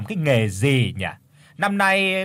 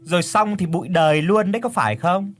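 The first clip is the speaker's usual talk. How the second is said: exclaiming; 6 semitones higher than usual. Acted. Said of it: "thì thốt lên".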